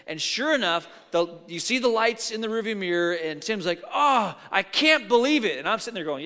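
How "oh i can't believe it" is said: exasperated dismay. Retold or imitated. Friend's dismay at police lights.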